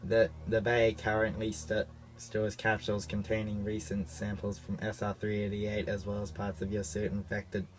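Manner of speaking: a bad, lightly done computer voice; robot voice. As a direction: play a stiff ship's computer. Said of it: "that's a terrible robot voice".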